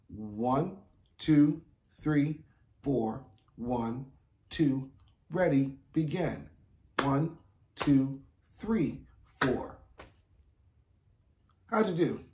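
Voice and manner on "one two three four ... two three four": steady count-in with a cue. Shown as a demonstration. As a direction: count them in evenly. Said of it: "Do not clap until I say".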